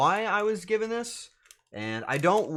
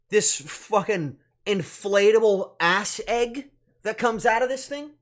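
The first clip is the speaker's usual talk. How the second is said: mock outrage; 6 semitones higher, 7 dB louder than usual. Streamer shows off a vile gift chicken, mock outrage. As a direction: hammer each word in exasperated disbelief.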